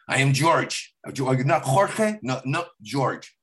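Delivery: slow, insistent mock of a proud father; lightly imitating dad correcting his name. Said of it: "I always make fun of him doing that".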